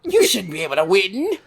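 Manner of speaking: lightly put-on cartoon villain voice; a hint of petulant anime villain; early Vegeta. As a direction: play a silly, sneering little prince. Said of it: "I love early Vegeta's voice".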